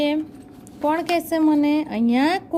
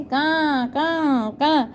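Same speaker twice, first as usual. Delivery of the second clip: crow cawing; much slower than usual. Retold or imitated. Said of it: "શું કરીને?".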